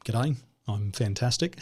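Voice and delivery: lightly played-up Aussie accent; easygoing Aussie accent greeting; best Aussie accent. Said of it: "do my best Aussie accent".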